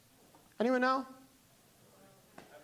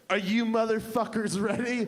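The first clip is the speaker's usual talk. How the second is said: arrogant entrance; 2 semitones higher than usual. Retold or imitated. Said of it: "this arrogant woman just, like, kicked in a door".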